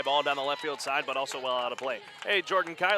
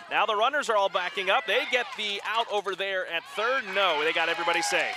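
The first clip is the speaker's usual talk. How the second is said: excited call; 4 semitones higher, 3 dB louder than usual. Real, not acted. Caller excited during rundown play.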